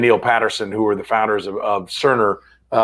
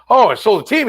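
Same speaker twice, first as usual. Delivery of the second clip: mock owner's delight, pitched up and louder; retold elation; 10 semitones higher, 5 dB louder than usual. Guest retells an owner's big payoff, in high mock elation. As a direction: imitate a relieved seller exclaiming, high.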